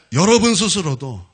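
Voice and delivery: firm, projected blessing; preaching benediction. Real, not acted. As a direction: pronounce the blessing with pulpit emphasis. (힘주어 선포하는 축원)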